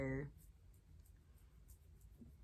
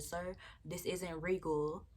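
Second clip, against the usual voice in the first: politely; 4 dB quieter, slower than usual. Retold or imitated. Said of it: "I said to him politely".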